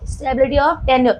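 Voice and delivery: very slow, word by word, for notes; slow dictation. Shown as a demonstration. Teacher dictating to the class, slow word by word. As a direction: spell it out slowly so the class can write. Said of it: "ध्यान देना गधो".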